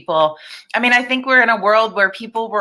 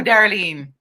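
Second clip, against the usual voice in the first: whispered. Pretend. Whispered name after accent.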